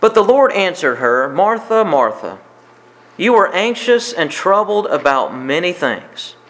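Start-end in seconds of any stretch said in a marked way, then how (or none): 1.3-6.4 gentle tone. Acted. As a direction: call her name gently, like a patient friend. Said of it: "he says it with a gentle tone".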